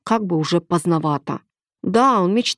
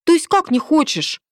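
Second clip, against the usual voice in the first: indignant; 10 semitones higher than usual. A narrator's reading. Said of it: "возмутилась Милена".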